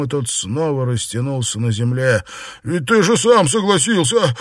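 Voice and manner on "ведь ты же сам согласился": muttered protest. Acted. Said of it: "пробормотал Сюэпань".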